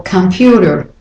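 American computer with final r; American pronunciation. Shown as a demonstration. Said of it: "either way, there's a y".

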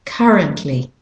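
currently with British or Australian "uh" in CUR; British or Australian currently, no R in the first vowel; British or Australian accent. Shown as a demonstration. Teacher repeating the vowel, British or Australian accent on currently. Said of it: "the U says ah".

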